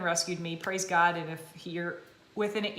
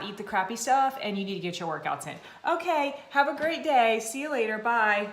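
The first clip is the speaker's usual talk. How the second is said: mock bossy trainer. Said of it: "I'm not one of those people that's like".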